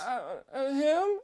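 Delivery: put-on terrified kid. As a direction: squeak it out, hesitant and scared. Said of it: "I shit myself".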